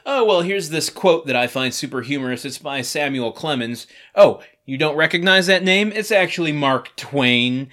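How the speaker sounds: showily superior, lifted and lilting; imitating a self-satisfied name-dropper; mock condescending. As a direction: play the smug know-it-all quoting to a friend. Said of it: "use language to feel superior".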